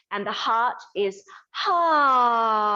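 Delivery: drawn-out ha from the heart; slow breathy ha. Shown as a demonstration. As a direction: breathe out a long ha. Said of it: "you feel that resonance".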